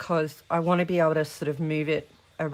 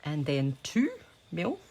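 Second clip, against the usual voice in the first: speaking on a held breath; breath held while measuring; holding breath. Real, not acted. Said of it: "I'm holding my breath each time".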